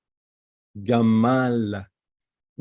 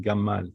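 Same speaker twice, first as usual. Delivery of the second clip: "Gamal" with a firm M in the middle; strong M; 2 semitones lower than usual. Shown as a demonstration. Teacher saying it's a strong M, strong M. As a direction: press on the M of "Gamal". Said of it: "It's a strong M".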